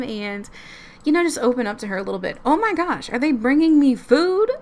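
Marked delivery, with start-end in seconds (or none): 2.4-4.6 surprised laugh. Real, not acted. Surprised at food being brought.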